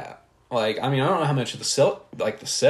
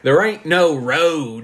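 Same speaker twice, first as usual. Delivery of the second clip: higher, louder, slow laughing hick voice; god-awful hick voice; 6 semitones higher, 6 dB louder, slower than usual. Retold or imitated. Bobby Joe tells the couple there's no road, hammed up. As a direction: growl it like a gross redneck. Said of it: "god-awful voice".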